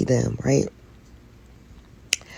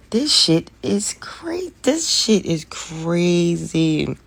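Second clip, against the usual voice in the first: whispered crazy; much slower than usual. Real, not acted. Exhausted rant about prices.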